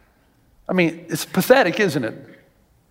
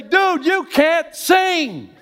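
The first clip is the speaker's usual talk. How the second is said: blunt friend; 9 semitones higher than usual. Acted. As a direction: tell him straight out, pleading and firm. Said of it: "the friend that will say".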